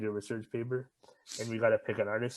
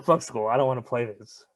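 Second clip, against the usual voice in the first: loud, scornful refusal of schoolwork; mock angry outburst; 7 dB louder than usual. Student blowing off school, mock angry and loud. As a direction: bark it like a fed-up student.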